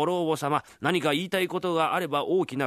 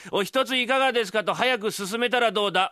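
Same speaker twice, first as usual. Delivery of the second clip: scolding; 9 semitones higher, 5 dB louder than usual. Acted. Scolding the bumbling fake doctor.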